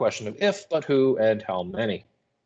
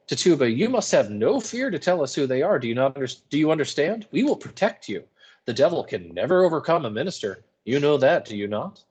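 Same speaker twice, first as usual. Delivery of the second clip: coaxing minister; 5 semitones higher than usual. Acted. Hale coaxing Tituba.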